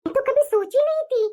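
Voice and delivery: rising angry complaint; indignant outrage. Acted. Wife to herself about the scheming sister-in-law, indignant. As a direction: let the betrayal boil over.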